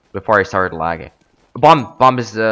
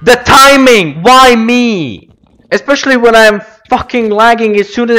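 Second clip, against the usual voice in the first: exasperated complaint; 6 semitones higher than usual. Real, not acted. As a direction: drag it out in exasperation. Complaining after dying in game.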